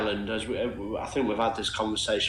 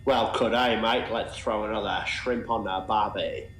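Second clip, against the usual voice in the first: mock Australian accent. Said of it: "best Australian accents ready for tomorrow".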